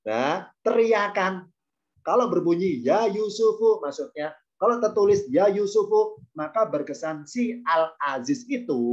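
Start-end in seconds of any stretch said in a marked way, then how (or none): 2.8-3.8 calling out. Shown as a demonstration. Al-Aziz calling Yusuf aloud, raised voice. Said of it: "ketika manggil Yusuf teriak". 5.3-6.2 raised calling voice. Shown as a demonstration. Al-Aziz calling out to Yusuf, raised voice. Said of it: "ketika manggil Yusuf teriak".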